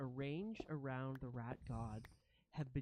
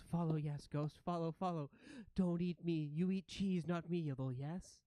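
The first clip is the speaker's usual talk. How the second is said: lightly voiced skittish creature; anxious ratling; 3 semitones higher, 4 dB louder than usual. Ratling leads the ghosts and asks not to be eaten, mildly anxious. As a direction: plead a little nervously, in short bursts. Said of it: "the ratling just scurries forward and goes".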